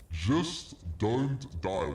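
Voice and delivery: slow, dragged-out mock advice; very slow, deadpan "Just don't die."; sarcastic. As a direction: repeat the useless advice with heavy sarcasm. Sarcastic repeat of game advice.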